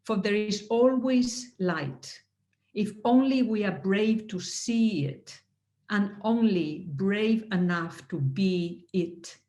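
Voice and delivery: slow, measured poetry reading; reading a poem aloud, slow and deliberate; poem recital. Retold or imitated. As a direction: recite it gently, letting each line land. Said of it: "this is part of the poem".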